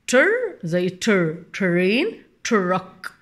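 تر blended the same in ترين and تراك; same TR sound. Shown as a demonstration. Teacher likens truck to train, TR stressed. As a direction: lean on the "tr" opening each word. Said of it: "تر زي تر".

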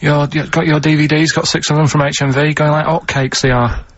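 lightly voiced cockney cheeky chap; a hint of a chirpy street-seller. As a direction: retell it with a touch of cockney chancer. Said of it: "a cockney, little cheeky chap type person".

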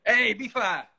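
words muffled behind a mask; masked, muffled call voice; through a face mask. Real, not acted. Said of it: "I've got my mask on".

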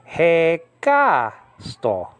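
hekasto read with an Italian-style lilt; Italian-like Greek. Shown as a demonstration. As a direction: stress the KA as an Italian would. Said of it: "read it like an Italian would speak".

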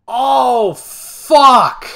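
high, loud oh then a burst; startled curse. Real, not acted. Player caught sneaking into the bed, startled. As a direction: blurt it out when caught.

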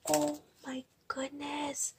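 slow, breathless whispered wonder; awed whisper. Real, not acted. Opening a friend's gift at night, awed whisper. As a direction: gasp it out in a hush. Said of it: "I've been a little bit quiet".

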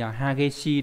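Hageshi said slowly, each syllable clear: ha-ge-shi; slow model reading. Shown as a demonstration. Teacher reads Hageshi to the class, slow and careful. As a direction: draw out Hageshi for learners to copy. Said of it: "Chữ khích này đọc là gì nhỉ".

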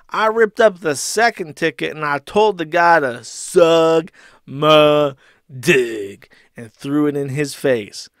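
lightly mocked aggrieved customer; mock indignation, building in force; Ethan Ralph. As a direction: read it as a slightly hammed-up complaint. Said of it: "To which Ralph replies and says".

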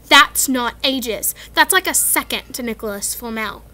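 snappy. Acted. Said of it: "Hermione snapped".

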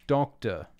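firm, loud correction; insisting. A narrator's reading. Bell correcting Erling, insisting it's a doctor. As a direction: insist on the word. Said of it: "she insisted".

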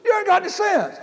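amused mock scolding, laughing. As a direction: laugh at him as you call him a fool. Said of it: "she's laughing".

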